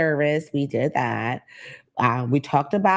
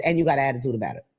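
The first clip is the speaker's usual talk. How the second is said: quoting Lidge; 3 semitones lower, much faster than usual. Retold or imitated. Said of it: "what my girl Lidge said".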